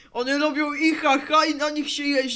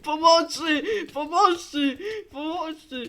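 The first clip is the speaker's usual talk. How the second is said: laughing cries for help; 2 semitones higher than usual. Acted.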